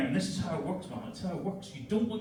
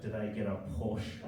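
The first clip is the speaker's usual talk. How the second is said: brother's scorn; 7 semitones lower, slower than usual. Retold or imitated. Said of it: "And he goes".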